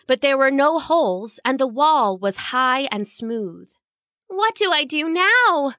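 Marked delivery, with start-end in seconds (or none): 4.3-5.7 miserably to herself. Acted. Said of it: "she said to herself miserably".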